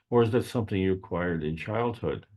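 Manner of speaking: acquired leaned on with extra weight; stress on acquired. Shown as a demonstration. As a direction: hit the word acquired firmly. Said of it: "And I emphasize the word acquired".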